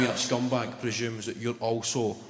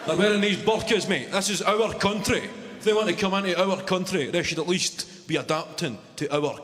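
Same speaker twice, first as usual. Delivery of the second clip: higher-pitched mocking bigot rant; lightly hammed-up bigot on the train; 5 semitones higher than usual. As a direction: parody the passenger's righteous rant. Imitating the bigoted passenger.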